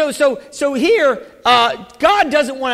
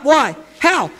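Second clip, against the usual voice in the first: preacher calling out why how; shouted questions; 3 semitones higher than usual. Acted. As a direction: challenge the congregation.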